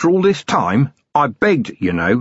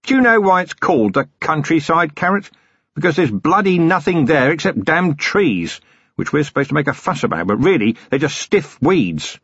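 higher-pitched, disgruntled rant; exasperated grumbling; 7 semitones higher than usual. Acted. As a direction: rail against a dreaded trip. Acted rant against the countryside.

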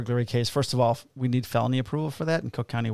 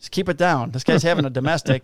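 retold yelling; 3 semitones higher, 4 dB louder than usual. Neighbour yelling at an arguing couple, retold at raised pitch. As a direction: imitate a neighbour yelling through the door. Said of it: "starts yelling".

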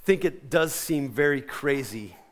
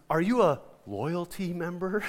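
laughing through the quote; 3 semitones higher than usual. Retold or imitated. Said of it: "she goes".

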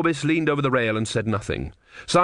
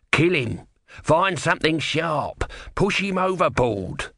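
frantic tortoise voice; 6 semitones higher, slower than usual. Acted. Tortoise demands violence.

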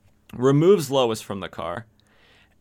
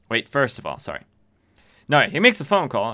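usual speaking voice

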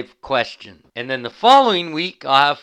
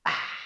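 satisfied sigh after a sip; 10 dB quieter than usual. Real, not acted. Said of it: "Can you hear me drinking it".

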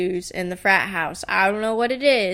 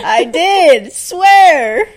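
laughing; 8 semitones higher, 12 dB louder, much slower than usual. Real, not acted. Laughing hard at own story.

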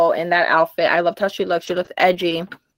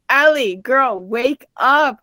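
retold urging, a touch raised; insistent wake-up call; 3 semitones higher, 3 dB louder, much slower than usual. Telling her mistaken friend to wake up, insistent. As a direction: imitate rousing a sleepy friend.

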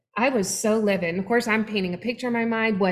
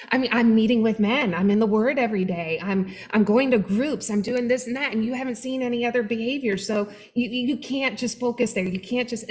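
mildly defensive; 3 semitones higher than usual. Retold or imitated. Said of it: "He would get a little defensive".

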